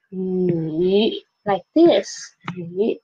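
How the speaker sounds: 雨 low and dipping, never rising back up; half third tone. Shown as a demonstration. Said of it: "I read 雨 as a half third tone".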